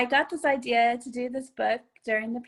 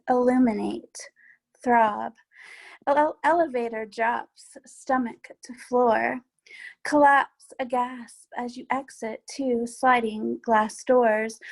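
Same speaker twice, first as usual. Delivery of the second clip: measured poetry reading with pauses between phrases; poem reading. Acted. Poet reading from their book to an online audience, poem reading. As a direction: read each image deliberately, pausing at the line breaks. Reads own poem aloud.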